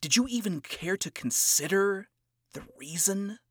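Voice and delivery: a hint of cocky scorn, hushed; condescending and cocky. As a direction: talk down to him quietly. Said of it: "spoke in a condescending and cocky tone".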